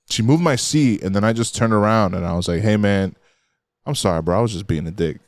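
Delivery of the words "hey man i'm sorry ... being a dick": sincere apology. Retold or imitated.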